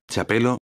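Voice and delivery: "chapelo" begun with Spanish CH; CH opening on "chapelo"; circumflex C as CH. Shown as a demonstration. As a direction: say the first sound of "chapelo" as in "chico". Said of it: "Se pronuncia como la C H".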